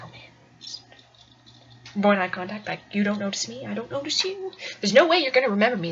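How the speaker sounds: low, very soft inner voice; furtive undertone; hushed dread. Retold or imitated. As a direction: mutter it privately, hoping to go unnoticed. Inner panic on seeing him.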